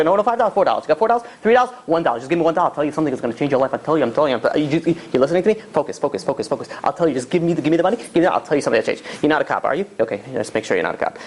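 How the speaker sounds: lightly acted junkie, jittery and insistent; a hint of a rambling, pushy beggar; haggling street addict. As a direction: bargain in quick, repetitive bursts. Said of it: "he's like".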